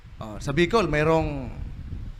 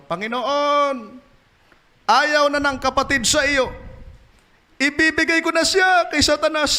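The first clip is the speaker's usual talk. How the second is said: mock solemn prayer; 9 semitones higher than usual. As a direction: pray it with mock gravity. Pastor prays, voice raised. (pabirong taimtim na dasal)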